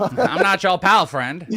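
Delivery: a hint of South Park Canadian; lightly done South Park Canadian bit. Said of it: "South Park Canadian".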